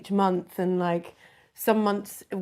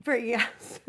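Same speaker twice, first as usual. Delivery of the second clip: slight lisp from new braces; talking round fresh braces; 3 semitones higher than usual. Real, not acted. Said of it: "I can't talk with my braces".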